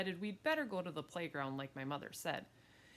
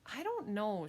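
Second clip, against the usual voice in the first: a touch higher, mildly doubtful; hesitant; 5 semitones higher than usual. Acted. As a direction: hesitate like an unsure mother. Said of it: "My mother hesitated".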